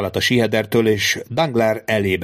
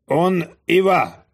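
high, slow French reply; francia haramia; 9 semitones higher, much slower than usual. Acted. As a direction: draw the French out slowly and brightly. Bandit answers in French. (magas, lassú francia válasz)

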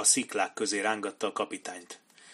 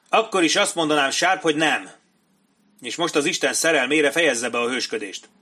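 raised, emphatic officer's dismissal; exasperated refusal; 4 semitones higher, 5 dB louder than usual. Acted. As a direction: dismiss the junior officer with rising irritation. Captain scornfully refuses Sharp's plea. (ingerült elutasítás)

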